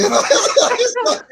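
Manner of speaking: high laugh spilling into words; cracking up hard; laughing mid sentence. Real, not acted.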